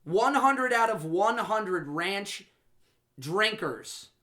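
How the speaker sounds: slow, deliberate official decree; slow proclamation. Acted. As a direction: drag out each word like a verdict. Mock official podcast declaration.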